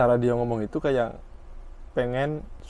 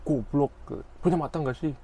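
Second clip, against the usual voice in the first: mock insult; 3 semitones higher than usual. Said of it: "Kayak gitulah kurang lebihnya".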